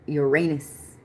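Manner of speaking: Uranus said as "your-RAY-nus"; Uranus pronounced "yer-AY-nus" on purpose; deliberate pronunciation. Real, not acted. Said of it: "I had to say it like that".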